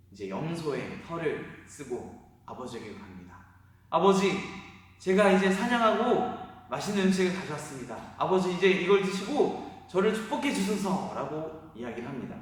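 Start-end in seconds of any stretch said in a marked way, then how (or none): 3.9-11.1 louder, higher voice of a son asking his father for the blessing; pleading son voice. Acted. Jacob asking blind father for blessing, eager and louder. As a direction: ask your father to bless you, eager and polite.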